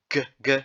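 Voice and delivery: g, g hit hard like the g in finger; hard g demo. Shown as a demonstration. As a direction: punch the hard g sound. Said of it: "you emphasize a lot on the G".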